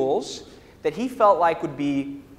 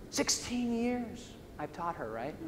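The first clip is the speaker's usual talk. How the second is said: high, soft, laughing through a hurt father's line; amused imitation of a betrayed father; mock hurt father; 3 semitones higher, 13 dB quieter than usual. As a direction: play the wounded dad and laugh at it.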